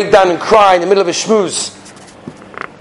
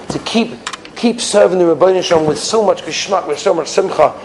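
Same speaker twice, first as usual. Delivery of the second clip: calm blessing; 3 semitones lower than usual. Acted. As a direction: wind down with a gentle blessing.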